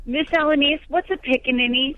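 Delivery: put-on young daughter. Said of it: "she's raising her hand going".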